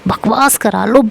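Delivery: mock him for never listening; angry yelling. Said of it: "वो ऐसे चिल्लाए जा रही होती है मेरे ऊपर".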